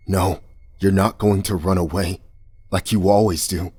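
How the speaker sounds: a touch of raw, harsh accusation. Acted. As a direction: cut into her with it. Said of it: "His voice was harsh and raw".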